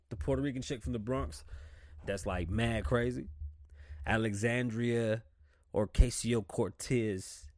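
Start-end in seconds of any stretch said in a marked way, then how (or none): 4.1-7.5 Alexandria Ocasio-Cortez spelled out slowly, syllable by syllable; slow down and get every syllable of Alexandria Ocasio-Cortez right; careful full name. Shown as a demonstration. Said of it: "I like to pronounce people's names right".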